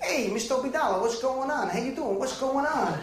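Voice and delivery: lively New Jersey accent imitation. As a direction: mimic a local kid's Jersey accent greeting. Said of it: "a battle of the accents".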